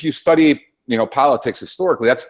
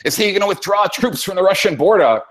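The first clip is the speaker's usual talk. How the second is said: mocking Rachel Maddow; 7 semitones higher than usual. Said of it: "Rachel Maddow is like".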